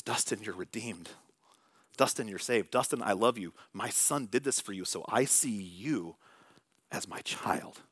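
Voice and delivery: soft, slow reassurance fading to a near whisper; tender God's voice. Pretend. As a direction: speak it like a loving father to his son. God's voice speaking love to him.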